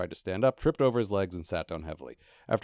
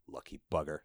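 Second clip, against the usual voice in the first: a soft sighing mutter, lower; sighed; 6 semitones lower, 8 dB quieter than usual. Acted. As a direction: let it out on a sigh. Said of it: "sighed Gaspode".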